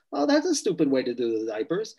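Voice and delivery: lightly teasing put-down; joking jab. Retold or imitated. Wife to husband over the diapers, mildly joking. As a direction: toss it off as a harmless joke. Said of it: "jokingly, she thinks".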